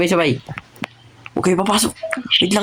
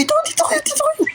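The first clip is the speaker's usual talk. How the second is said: excited high call. Real, not acted. Calling teammates during raid.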